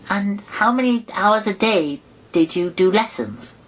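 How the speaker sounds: put-on high, quick girlish question; change the subject in a hurry; high young girl's voice, hurried; eager Alice. A narrator's reading.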